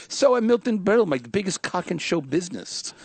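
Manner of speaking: comic showing off his Milton Berle; Milton Berle impression. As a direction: brag like a vaudeville joker. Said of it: "my Milton Berle's good too".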